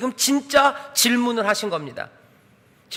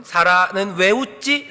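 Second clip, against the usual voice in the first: slow sincere question; much slower than usual. Shown as a demonstration. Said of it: "진짜 질문이에요".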